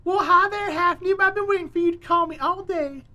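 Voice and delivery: gushing Southern mom greeting her son on the phone; pretend mom, Southern accent. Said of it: "I can pretend to be your mom".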